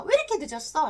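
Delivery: mild acted spousal scolding; mock cross demand to a late partner; angry scolding. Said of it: "라고 하면서 화를 내는 거예요". (살짝 화내며 따지는 말투)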